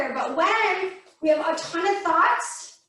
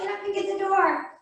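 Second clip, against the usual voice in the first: higher, quick cat voice; excited cat; 5 semitones higher, faster than usual. Acted. Cat telling its owner the doorbell rang, excited. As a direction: urge them along as an excited cat. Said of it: "the cat's all excited about it".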